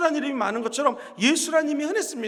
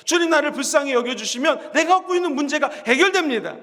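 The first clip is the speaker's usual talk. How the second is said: normal talking voice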